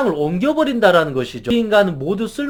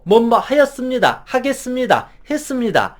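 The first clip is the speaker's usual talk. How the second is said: a bit higher, each ending crisp and final; firm clear endings; 5 semitones higher than usual. Shown as a demonstration. Employee reporting to the boss, crisp confident endings. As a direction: state it with confidence. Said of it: "이런 식으로 말투를 바꾸는 것이".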